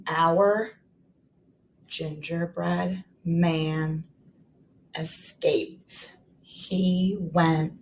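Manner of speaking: "Our gingerbread man escaped" read word by word, very slow; non-fluent reading demo; slow choppy reading. Shown as a demonstration. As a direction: read it haltingly like a beginner. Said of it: "Let's read it slow".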